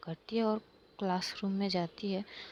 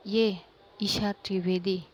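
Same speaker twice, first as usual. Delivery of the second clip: parade her confession as a joke; mocking announcement. Aaru mocking Isha before class.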